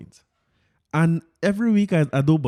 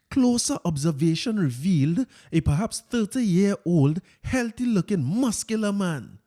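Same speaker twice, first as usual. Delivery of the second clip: Fitz voice. Retold or imitated. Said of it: "let me get my Fitz voice here".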